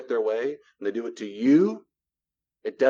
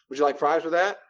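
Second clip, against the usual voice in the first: chirpy cashier upsell, a touch higher; 3 semitones higher than usual. Shown as a demonstration. To a customer, bright mock cashier voice. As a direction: play the fast-food worker offering fries. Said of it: "Practice baby nose first".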